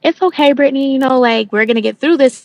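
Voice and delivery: quoting mom while choked up; tearful. Real, not acted. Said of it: "I'm getting a little bit choked up".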